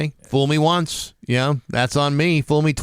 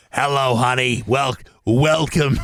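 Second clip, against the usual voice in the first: put-on elderly woman voice, lower pitched; 3 semitones lower than usual. Playing Edna after hip surgery, welcoming someone: elderly Edna voice. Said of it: "It's Edna".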